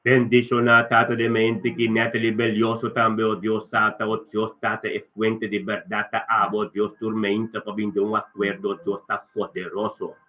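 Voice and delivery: steady, flowing blessing in short phrases; earnest prayer. Real, not acted. Pastor praying a blessing over a church member, earnest prayer. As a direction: open firmly, then settle into prayer.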